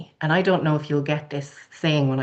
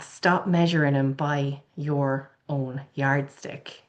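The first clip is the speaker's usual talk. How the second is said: slow, deliberate; slower than usual. Retold or imitated. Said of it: "he talked in a real country Irish accent".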